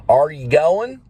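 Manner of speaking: "Are" in "Are you going" with a heavy Texan R, high rising question. Shown as a demonstration. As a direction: lean on the R in "Are", Texas style. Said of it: "Texans are horrible with the R".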